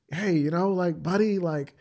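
lightly mocking Bill Maher voice; Bill Maher impression. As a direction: play Bill Maher talking down to a pal. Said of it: "I'm doing my best Bill Maher impression".

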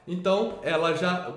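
ordinary talk, nothing marked

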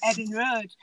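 "Edding Road" in Hull dialect, no H on Edding; Hull pronunciation. Shown as a demonstration. Showing off Hull words to a caller, Hull pronunciation. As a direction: say "Edding" without an H, Hull style. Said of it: "Here's some of my Hull words".

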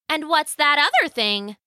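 lightly voiced, high-pitched wife; a hint of an inquisitive old wife; curious wife.

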